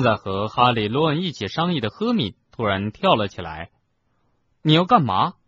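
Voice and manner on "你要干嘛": startled, higher and louder question; surprised. A narrator's reading. Ron to Hermione who suddenly jumped up, surprised. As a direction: ask it taken aback, voice jumping up. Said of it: "罗恩吃惊地问".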